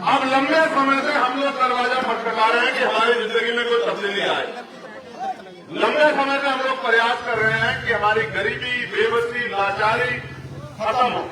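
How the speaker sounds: projected rally oratory, pitched above the offhand asides; emphatic public address with pauses between phrases; political speech. Real, not acted. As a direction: drive each phrase out to the crowd.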